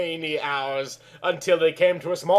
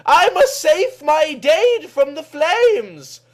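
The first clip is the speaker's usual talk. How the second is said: urgent cry; 12 semitones higher, 4 dB louder, slower than usual. Acted. Kelly panics during fire.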